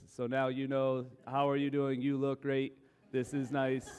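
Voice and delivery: mildly sweet, careful, even tone; gentle tone demo. Shown as a demonstration. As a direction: show how carefully nice you now sound at home. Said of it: "all that I do is talk like this".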